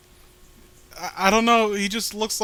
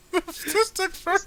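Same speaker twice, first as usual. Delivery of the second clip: lightly held villain voice; 12 semitones higher, 4 dB quieter than usual. Acted. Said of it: "Paul Bear voice".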